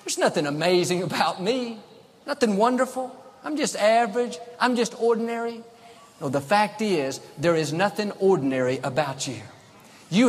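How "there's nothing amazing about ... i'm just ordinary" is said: higher, deflated mock complaint; self-doubting whine. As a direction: mimic a listless self-put-down. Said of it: "Most of us think".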